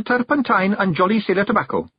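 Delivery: high wee Feegle voice; a tiny voice flattering the chief; Awfully Wee Billy. Acted. Wee Billy flatters Rob, in a high wee voice.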